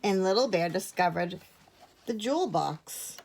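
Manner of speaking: measured picture-book narration with long pauses; clear, unhurried storytelling; story reading. A narrator's reading. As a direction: read it to young children. Reads a picture book to children.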